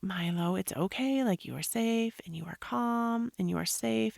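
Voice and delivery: calm him down gently, almost whispered; mother hushing her sobbing son in her arms; soothing whisper. Retold or imitated. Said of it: "And I'm like".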